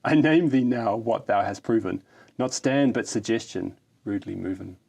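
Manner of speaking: grand, hammed-up ode reading; mock-solemn ode to a kickstand; mock-heroic poem recital. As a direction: declaim it like solemn verse.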